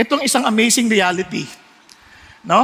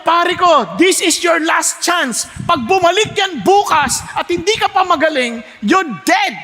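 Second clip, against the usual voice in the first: last warning; 4 semitones higher than usual. Acted. Pig's final warning to horse.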